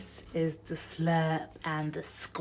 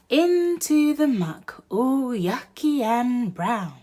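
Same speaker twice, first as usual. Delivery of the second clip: mock disgust; 5 semitones higher, 7 dB louder than usual. A narrator's reading. Duck lands in muck.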